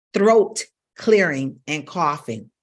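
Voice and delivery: rough throat clearing and coughs. Shown as a demonstration. Vocal coach demonstrating abusive throat clearing. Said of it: "Did you know that that was abusive to the voice".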